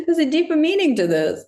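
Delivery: high, laughing dawning surprise; a squeaky laughing oh as it finally clicks; sudden realization. Retold or imitated. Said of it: "I was like".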